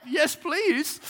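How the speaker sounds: high-pitched, keen acted reply; eager mock acceptance. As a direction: pipe up eagerly as the retold cashier.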